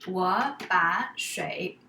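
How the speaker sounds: steady, slowed example read; 放慢速度示范; slowish demo. Shown as a demonstration. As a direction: say it slowly and clearly. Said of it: "example sentence".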